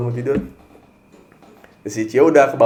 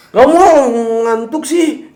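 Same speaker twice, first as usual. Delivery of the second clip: much higher, louder sulky snap; snappy refusal; 7 semitones higher, 5 dB louder, much slower than usual. Retold or imitated. Husband imitating his sleepy wife's cranky refusal. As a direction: cut him off, cranky and sleepy. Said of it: "Nada judes".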